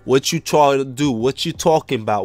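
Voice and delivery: low-pitched put-on player character; deep big-man voice. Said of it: "I gotta get a deep voice".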